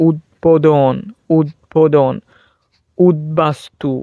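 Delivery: উদ্বোধন and উদ্বাস্তু split after "ud"; b kept. Shown as a demonstration. Teacher giving examples, "ud-bodhon", "ud-bastu" with audible b. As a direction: sound a clear b in উদ্বোধন, উদ্বাস্তু. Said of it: "এখানে উচ্চারণ হবে".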